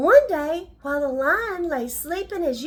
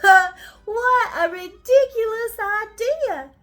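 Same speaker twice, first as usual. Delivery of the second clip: mocking lion; 3 dB louder than usual.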